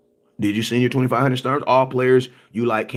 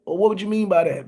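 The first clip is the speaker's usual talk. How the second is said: high questioning put-on voice; mock phone caller; 7 semitones higher than usual. Voicing the caller asking what he meant, high and questioning.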